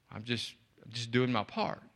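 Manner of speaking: a volunteer quietly brushing off praise; humble and soft. Retold or imitated. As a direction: play it down, barely above a murmur. Humble volunteer answers stranger.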